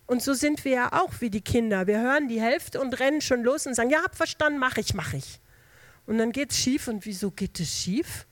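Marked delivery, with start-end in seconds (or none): 3.9-5.4 put-on eager hasty child. Hasty child answering parent.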